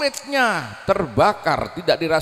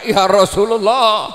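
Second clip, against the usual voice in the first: louder, pleading call to the Prophet; mock wail of longing, louder; tearful crying out; 5 semitones higher, 8 dB louder than usual. A narrator's reading. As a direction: cry out through tears, louder. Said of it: "Dengan linangan air mata dia teriak-teriak".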